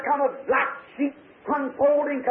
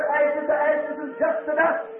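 preacher at graveside; slower than usual. Retold or imitated. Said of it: "and the preacher said".

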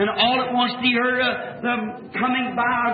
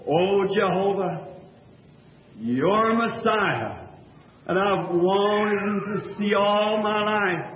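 trembling prayer; 3 semitones lower, slower than usual. Retold or imitated. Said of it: "just shivering and saying".

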